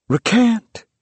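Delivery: high, loud accusing cry. A narrator's reading. A voice demands the burning old man recant, crying out. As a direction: call it out like an inquisitor at the stake. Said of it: "cried a voice".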